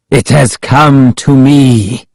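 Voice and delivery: slow, mildly solemn declaration; Ahmed addressing the priestess. A narrator's reading. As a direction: declare it as if to the heavens. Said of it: "as if speaking directly to the priestess".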